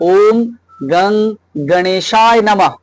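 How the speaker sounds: very slow, গং as "gung"; actual pronunciation. Shown as a demonstration. Teacher modelling the actual pronunciation, slow mantra with "gung" for গং. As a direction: draw out গণেশায়, neutral vowel in গং. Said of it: "এর উচ্চারণটা এরকম হয়".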